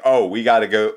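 badly faked Philly sports-radio accent; terrible Philly sports-radio accent. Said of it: "this is just a terrible accent".

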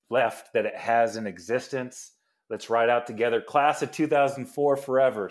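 lightly voiced folksy letter writer, loose impression; Philip Rivers. Podcaster reads the quarterback's retirement letter, in a lightly imitated voice. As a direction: read it in a mildly put-on, badly imitated voice. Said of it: "read it in kind of his voice".

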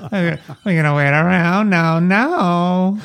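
a lightly voiced vaudeville wisecracker; Zeppo Marx impression. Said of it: "Zeppo Marx impression".

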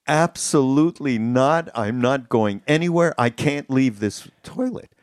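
retold stubborn no, said firmly and slowly; mock indignant refusal. Friend refusing to move rooms away from the toilet, mock stubborn.

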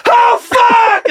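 high, loud startled yelp; panicked yelp. Pretend. Superman taking off again, loud panicked yelp. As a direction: yelp as if the ground just vanished. Scared hero takes off.

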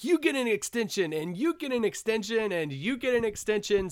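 high, excited giveaway announcer; Oprah. Retold or imitated. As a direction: shout out gifts to the crowd like a talk show host. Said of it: "the Oprah meme".

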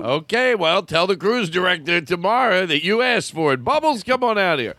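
a hint of high clown host. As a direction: call the dog out like a showman. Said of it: "He goes".

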